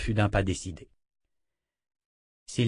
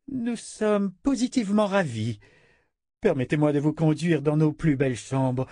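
much less arrogant; 2 semitones higher than usual. Acted. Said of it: "d'une voix beaucoup moins arrogante".

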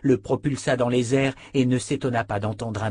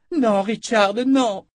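high, loud pleading cry; desperate shout; 12 semitones higher, 7 dB louder, slower than usual. Acted. Nietzsche clings to Richard to stop him charging: high, loud cry. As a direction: cry out to hold him back.

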